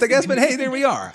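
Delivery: breaks into a high, loud, embarrassed laugh. Real, not acted. Co-host laughing off a personal confession on a comics podcast, embarrassed laugh. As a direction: laugh off the awkward moment.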